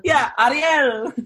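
high and laughing, a lightly done Caribbean "Ariel"; Sebastian's Caribbean accent. Retold or imitated. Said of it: "throw a little accent on it".

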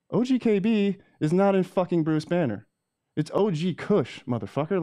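high, heated repeat; outraged correction. Real, not acted. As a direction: hammer the correction home in disbelief.

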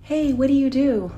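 retold holler. Trash man hailing her from his truck, retold holler. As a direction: call out like a passing trash man, not really yelling. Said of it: "he's yelling at me".

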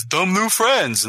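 high, slow, dopey and delighted; slow high childlike voice. Retold or imitated. Quoting King Shark meeting jellyfish, slow high voice. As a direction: coo it like a big simple creature. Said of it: "he says".

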